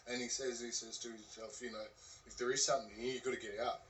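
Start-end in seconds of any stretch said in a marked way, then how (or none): 2.3-3.8 firm, loud warning to a ghost; loud command. Retold or imitated. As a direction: call it out firmly. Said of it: "So he says it in his voice. He says it out loud".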